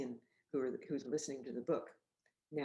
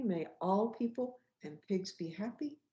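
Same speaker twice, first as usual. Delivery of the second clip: slow gentle recital; 3 semitones higher than usual. Shown as a demonstration. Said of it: "Saying it with me".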